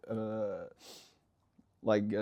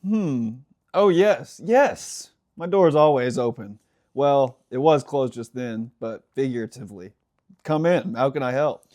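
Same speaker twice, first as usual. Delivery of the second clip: welcoming boss character; 3 semitones higher, 8 dB louder than usual. Acted. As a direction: play an eager superior inviting someone in. Reads character one in story.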